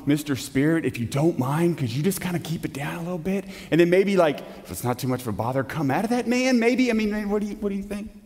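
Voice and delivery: tentative, mock-meek asking, trailing into quick mumbled hedges; timid polite request. Preacher parodies Jesus politely asking a spirit to leave, meek and hesitant. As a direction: plead apologetically, hedging every word. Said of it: "I don't hear this as Jesus saying".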